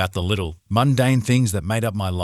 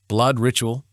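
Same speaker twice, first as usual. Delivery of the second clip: alarmed question on blood; surprised; 3 semitones higher than usual. A narrator's reading. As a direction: repeat it in shock. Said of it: "My eyes widened".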